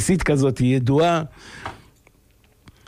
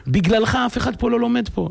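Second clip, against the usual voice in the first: pitched-up imitation of a scolding rabbi; retold yelling; 7 semitones higher than usual. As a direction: imitate the mashgiach berating the student. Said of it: "והוא צועק עליו".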